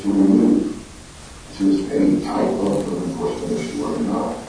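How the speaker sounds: speaking through a bad, echoing connection; garbled audio. Real, not acted. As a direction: voice breaking up with reverb. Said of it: "You're very garbled".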